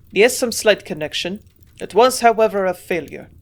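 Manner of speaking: put-on gruff old man in a German accent; strong German accent. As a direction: admit the failure in a heavy German accent. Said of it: "still speaking with his strong accent".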